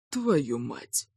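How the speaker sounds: hushed, shocked curse under the breath; a lightly whispered swear word. A narrator's reading. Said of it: "прошептал Калиб".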